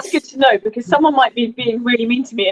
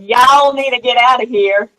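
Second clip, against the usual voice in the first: mock Southern attitude; 3 dB louder than usual. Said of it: "I need to do a finger point".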